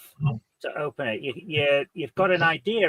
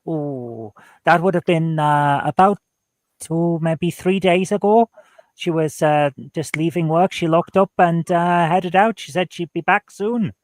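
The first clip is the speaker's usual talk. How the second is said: put-on Welsh accent. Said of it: "just gonna keep going with it".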